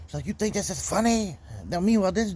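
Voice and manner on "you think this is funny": mock angry yell. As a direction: throw her accusation back at him, hammed-up. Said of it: "She starts screaming and yelling".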